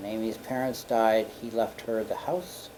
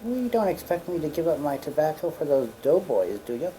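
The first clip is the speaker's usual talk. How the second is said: imitating Amy; 5 semitones higher than usual. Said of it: "looked at them and said".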